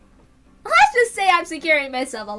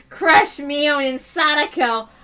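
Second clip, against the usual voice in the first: gloating declaration; 3 dB louder, much slower than usual. Acted. Villain gloating over plan.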